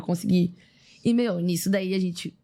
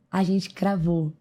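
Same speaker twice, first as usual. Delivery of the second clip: slow emphatic; much slower than usual. Real, not acted. Proud landing of the routine.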